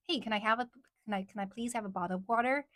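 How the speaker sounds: easy, casual American accent; relaxed American pronunciation of "bottle of water". Shown as a demonstration. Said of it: "But it's easier to say".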